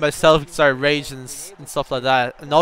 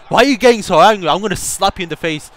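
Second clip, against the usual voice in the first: quick mock scolding, raised at the start; imitated angry dad; 2 semitones higher, 4 dB louder, faster than usual. Translating the dad's threat to his son, mock scolding. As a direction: put on a mildly cross parent. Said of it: "his dad came in and was just giving out".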